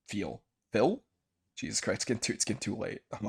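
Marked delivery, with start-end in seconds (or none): 0.1-0.4 quiet. Real, not acted. 0.7-1.0 higher, questioning "Feel?"; rising question. Real, not acted.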